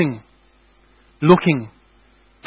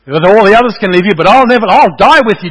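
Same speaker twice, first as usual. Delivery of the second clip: impassioned vow; 3 semitones higher, 6 dB louder than usual. Retold or imitated.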